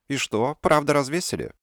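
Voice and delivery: high, eager questioning; curious skull. Acted. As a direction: lean in, delighted to know.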